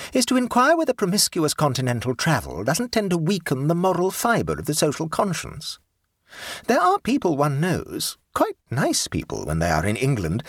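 high, grand society lady; imperious plummy grande dame. Acted. The Duchess speaks.

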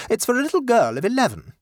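high, quick and proper, stress on little; the mother informing the shop assistant, high and brisk; lady's polite request. Acted. Mother telling the assistant, high and proper.

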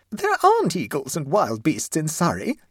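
high, loud, alarmed protest; note of horror. A narrator's reading. Mother rejects the wild beast idea, with dawning horror. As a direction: horror creeping into the voice. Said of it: "a note of horror had crept into her voice".

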